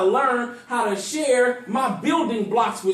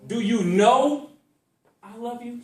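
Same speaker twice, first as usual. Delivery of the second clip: "know" drawn out and rising; questioning "know", pause before "I love you"; slow question; 3 semitones higher than usual. Shown as a demonstration. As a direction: ask "Do you know" slowly. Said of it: "It's like a question".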